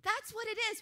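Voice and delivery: high, loud, fired-up preaching; carried away with enthusiasm; excited preaching. Real, not acted. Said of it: "I'm too excited".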